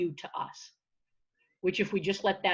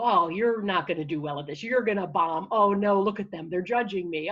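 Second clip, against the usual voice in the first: mildly hammed-up inner critic; lightly acted running put-downs; negative self-talk voice; 4 dB louder than usual. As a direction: nag like the doubting voice in your head. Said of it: "hear that voice come in and go".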